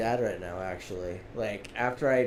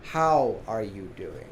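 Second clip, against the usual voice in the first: pointed question; 4 semitones lower, slower than usual. Retold or imitated. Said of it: "I said in such a way".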